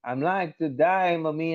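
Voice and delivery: slow, stretched American "die" for "day"; student's put-on American accent. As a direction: imitate a kid showing off American vowels. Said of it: "ఇంటికి వెళ్ళేసి". (అమ్మతో American యాస అనుకరణ)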